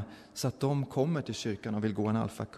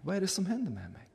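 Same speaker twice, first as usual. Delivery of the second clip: higher, faster, soft panicked voice; Fatima repeats it in rising alarm, higher and quick; frightened repeat; 7 semitones higher, 6 dB quieter, faster than usual. Retold or imitated. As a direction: ask again, rising into alarm. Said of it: "hon kom tillbaka och sa".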